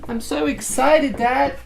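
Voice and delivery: very high, slow puppy voice; voicing the dog. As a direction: speak as the excited dog.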